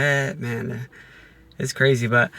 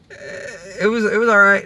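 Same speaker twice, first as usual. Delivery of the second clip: a kid's mock-bored brush-off, a touch louder and higher; bored kid answer; 8 semitones higher, 3 dB louder, faster than usual. Imitating a kid brushing off a parent, mock bored. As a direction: toss it off like a kid who can't be bothered.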